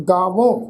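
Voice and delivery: ਗਾਵੋਂ with a nasalised final au; nasal ending. Shown as a demonstration. Teacher models the verb rule, ਗਾਵੋਂ with nasal last vowel. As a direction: end ਗਾਵੋਂ through the nose. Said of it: "ਨਾਲ ਬਿੰਦੀ ਸਹਿਤ ਨਾਸਕੀ ਉਚਾਰਨ".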